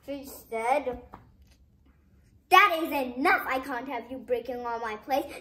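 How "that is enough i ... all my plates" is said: put-on loud angry outburst at the old father; angry son scolding loudly; furious. A narrator's reading. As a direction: shout it, fed up with the broken plates. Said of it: "so, so mad".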